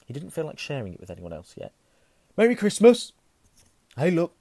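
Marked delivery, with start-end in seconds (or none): 2.4-3.1 very high, loud greeting; loud cheer. Acted. Twins burst in cheering. 4.0-4.4 calling out. Acted. Twin calls out.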